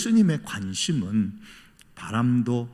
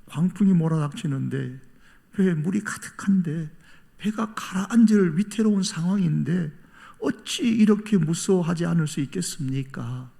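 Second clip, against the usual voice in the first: acted pleading; 6 semitones higher than usual. Voicing disciples pleading with Jesus.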